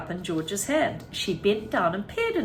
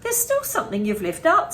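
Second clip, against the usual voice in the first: fretting father; 9 semitones higher, 5 dB louder than usual. A narrator's reading. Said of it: "said Mister Cranky".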